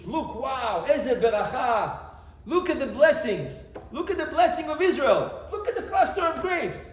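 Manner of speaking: laughing, excited admiration of the fruit; delighted praise. Acted. Spies marvelling at the land's fruit to the people, excited and laughing. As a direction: show off the grapes with joy.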